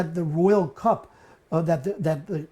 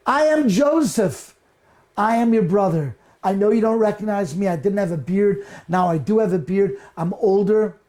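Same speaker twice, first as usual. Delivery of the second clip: emotional reveal; 3 dB louder than usual. Acted. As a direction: announce who you really are with feeling. Joseph reveals himself to brothers.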